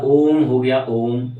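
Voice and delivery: ओम drawn out slowly on a level pitch; prolonged pluta vowel. Shown as a demonstration. Teacher giving another example of long vowels, ओम held long. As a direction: stretch the ओ of ओम. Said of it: "और भी ज़्यादा लंबा खींच करके".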